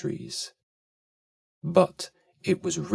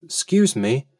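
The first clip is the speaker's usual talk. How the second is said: polite. Acted. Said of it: "said the elephant's child most politely".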